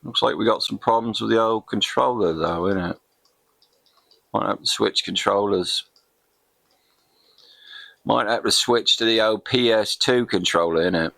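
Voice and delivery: light put-on English voice ending in innit; casual Brit gamer aside; mock English accent. Gamer fiddling with controller in a light mock English accent. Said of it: "Can't get out of my Soccer Kid affectation".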